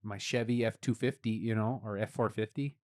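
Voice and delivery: lightly put-on Canadian accent; mild mock Canadian accent; Canadian Brad. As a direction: chat casually as a comic Canadian guy. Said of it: "he does a character called Canadian Brad".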